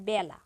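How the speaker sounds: বেলা said as "bæla"; æ vowel demo. Shown as a demonstration. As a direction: open the এ in বেলা to æ. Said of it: "এটাকে আমরা উচ্চারণ করি".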